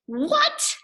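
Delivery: high, rising shocked what. Acted. Reader shocked by the nonsense, high and rising. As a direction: gasp it out in disbelief.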